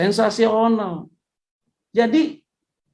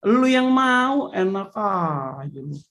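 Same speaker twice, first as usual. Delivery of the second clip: mock angry devil; much slower than usual. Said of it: "Setan bisa marah loh".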